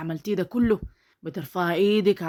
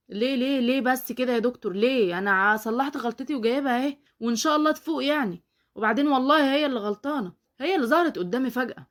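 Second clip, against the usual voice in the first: higher, pleading and flustered; panicked protest; 5 semitones higher than usual. Acted. Driver begging the doctor not to call the police, higher. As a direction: beg the doctor to drop it.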